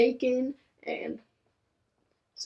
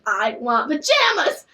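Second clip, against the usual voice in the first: whiny demand; 4 semitones higher, 4 dB louder, slower than usual. Retold or imitated. Whining for pajamas, getting mad.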